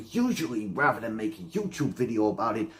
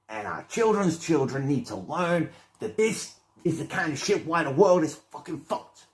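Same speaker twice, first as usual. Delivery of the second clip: heated rant; 2 semitones higher, 6 dB louder than usual. Real, not acted. Ranting escalation.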